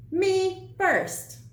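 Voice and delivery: high, loud call; ringing cry. A narrator's reading. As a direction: ring it out over the trough. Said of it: "rang out".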